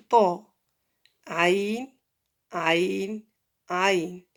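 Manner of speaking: each name from "Qaf" to "Ghayn" repeated alone, drawn out in Arabic pronunciation; letter-name demo. Shown as a demonstration. Teacher shows how letters are pronounced alone, careful demo. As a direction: model "Qaf", "Shin", "Ayn", "Ghayn" one at a time with held sounds. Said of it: "on prononce comme ça les lettres".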